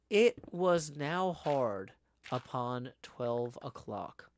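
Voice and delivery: measured audiobook-style reading; story narration. A narrator's reading. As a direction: narrate the tale with lively phrasing. Reads the novel aloud.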